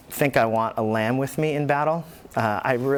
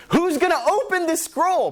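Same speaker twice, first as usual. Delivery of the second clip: rising question. Acted. Preacher voicing the reverberating question.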